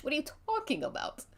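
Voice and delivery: high, fast mock outrage; Dookie's prissy indignation; mock indignant. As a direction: raise it in fussy disbelief. Dookie scolds the liar.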